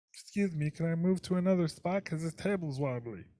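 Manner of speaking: slipping halfway into a cartoon alien voice. While complaining about wobbly tables, the speaker slips into a partial Marvin the Martian voice. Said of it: "went partially Marvin the Martian on that".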